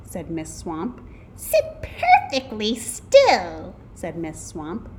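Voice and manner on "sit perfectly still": slow, loud, high strict command; mean teacher. A narrator's reading. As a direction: order the class about, word by word. Mean substitute orders the class.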